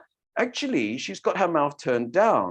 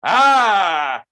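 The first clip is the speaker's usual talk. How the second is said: big open ah; 3 semitones higher, 8 dB louder than usual. Shown as a demonstration. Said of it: "what if we had a big mouth like that".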